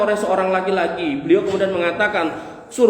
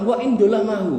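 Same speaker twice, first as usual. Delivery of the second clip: a lightly voiced son asking, a little raised; pleading son's question; 3 semitones higher than usual. Wronged son asks the Prophet, lightly voiced questioning. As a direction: ask it like a wronged son seeking answer. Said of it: "anak ini pun bertanya kepada Nabi".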